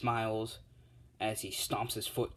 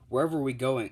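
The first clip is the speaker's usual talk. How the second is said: louder, a bit higher eager call; keen, louder first go; eager boast; 3 semitones higher, 6 dB louder than usual. Acted. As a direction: pipe up keen to show off. Dragon boy eager to fly hero.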